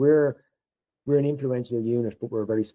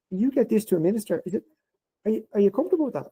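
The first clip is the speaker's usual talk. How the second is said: imitating dad; 9 semitones higher, faster than usual. Dad voiced asking.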